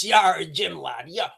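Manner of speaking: slow lightly Cornish pirate growl on "Yeah, Jim lad"; a hint of a Cornish pirate, slow; jokey Cornish pirate aside to a chat viewer; mock pirate. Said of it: "why do pirates talk with a Cornish accent".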